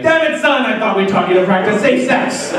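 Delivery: mock scolding father; angry dad. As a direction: play a dad exasperated with his son.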